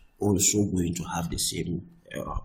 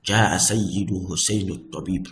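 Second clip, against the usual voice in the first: rattled off fast; quick example; much faster than usual. Shown as a demonstration. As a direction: run the Arabic example quickly. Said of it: "if I say".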